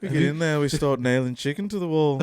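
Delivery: a light Liverpool lilt, half-hearted; mock band member. Mate tossed off in a mock Scouse voice. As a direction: put on a lazy band-member voice. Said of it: "I know how to do a Beatles".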